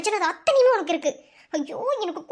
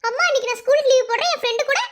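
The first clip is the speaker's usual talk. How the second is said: mock sweet-talk; 2 semitones higher than usual. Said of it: "என்னம்மா ice வச்சு என்கிட்ட நீ".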